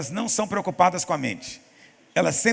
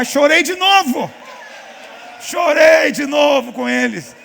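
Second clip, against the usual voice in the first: slow, much higher, loud preaching cry; emphatic shout; 9 semitones higher, 8 dB louder, slower than usual. Real, not acted. Pastor telling the church he cried again, a slow loud shout. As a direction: proclaim it at full force, slowly. Preaching peak about crying at funerals.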